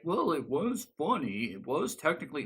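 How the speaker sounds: singsong mock objection; mocking defenders. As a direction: imitate annoying nitpickers with swooping pitch. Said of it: "I hated the people who were like".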